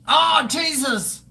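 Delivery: high, drawn-out, slow cry of alarm; horrified exclamation. Real, not acted. Streamer squirms at the thought, high slow horror. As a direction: recoil in disgust, voice leaping up. Recoiling from nipple piercing idea.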